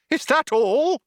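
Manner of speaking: high, loud, panicked shout. A narrator's reading. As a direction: yell it in alarm. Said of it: "shouted Arthur".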